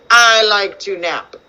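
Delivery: put-on slowed-down line from a children's book; slow story reading. Shown as a demonstration. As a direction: read the line slowly for children.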